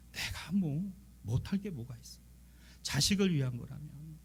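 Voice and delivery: normal talking voice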